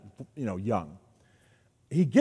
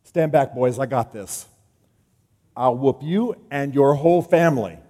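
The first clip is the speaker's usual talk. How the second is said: cocky boast; 4 dB louder than usual. Retold or imitated. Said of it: "Josiah walks out and goes".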